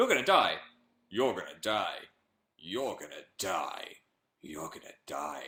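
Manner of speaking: very deep, angry, threatening voice, repeated. Recalling recording many versions of a line, in a very deep, mock-angry voice. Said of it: "I did a very deep, angry voice".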